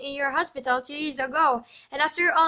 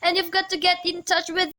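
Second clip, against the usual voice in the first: urgent, frightened begging; desperate plea. Acted. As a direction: plead with the operator for your life. Pleading for help against a murderer.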